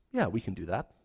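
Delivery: grudging yes kept to themselves; private thought. Retold or imitated. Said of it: "And they think".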